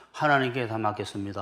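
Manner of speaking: a touch of put-on peacefulness; mock serene calm. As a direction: imitate someone placidly handing it all over. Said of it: "편안해야지".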